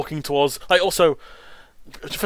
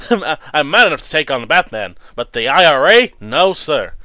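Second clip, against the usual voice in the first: Joker voice; 6 dB louder than usual. Retold or imitated. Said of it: "favorite Joker quote".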